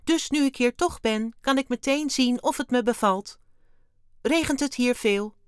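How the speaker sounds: high, loud eager alien chatter; enthusiastic. A narrator's reading. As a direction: chat on keenly as the little alien. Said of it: "zei Wim enthousiast". (enthousiast, hoog en luid)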